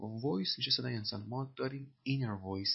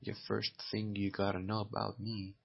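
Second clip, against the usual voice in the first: slow dictation; much slower than usual. Shown as a demonstration. Teacher repeats film line slowly.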